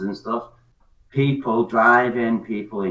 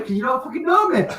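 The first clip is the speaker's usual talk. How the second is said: high, fast, laughing through it; laughing tease; 12 semitones higher, faster than usual. Real, not acted. Teasing his mate about the lottery, laughing. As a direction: giggle out the jab.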